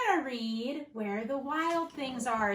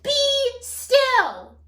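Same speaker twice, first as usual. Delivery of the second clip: much higher, louder firm command; commanding shout; 8 semitones higher, 10 dB louder than usual. Acted. Max to the wild things, loud commanding shout. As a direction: stop the monsters dead. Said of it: "Till Max said".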